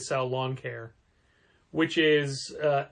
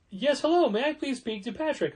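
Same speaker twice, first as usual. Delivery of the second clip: mock caller greeting, much higher; imitating the caller; 10 semitones higher than usual. A cold caller asks for Patrick, mock higher voice. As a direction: pitch it up like an overeager cold caller. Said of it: "I'm also not doing the accent".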